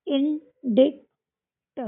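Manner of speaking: drawn-out indict, every sound clear; teacher stretching इंडिक्ट; slow demo reading. Shown as a demonstration. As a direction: spell it out slowly for the class. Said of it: "इसमें कुछ silent नहीं है".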